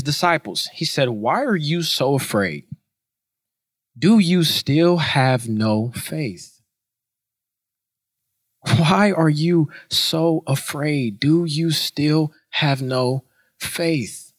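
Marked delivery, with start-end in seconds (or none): 1.1-6.6 slow, grave questioning; measured rebuke. Acted. Jesus to his frightened disciples, calm slow rebuke. 8.8-14.3 very slow, word-by-word questioning; slow, deliberate rebuke. Acted. Jesus questioning his frightened disciples, slow deliberate rebuke. Question repeated slowly for emphasis.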